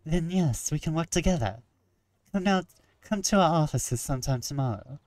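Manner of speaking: put-on a halfway decent French accent. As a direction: speak it with a light French accent. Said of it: "suddenly gained a halfway decent French accent".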